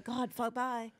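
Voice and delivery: laughing, lovey-dovey goodbye; giggly late night call. Pretend. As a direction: coo like a couple who won't hang up. Playful late-night-call bit.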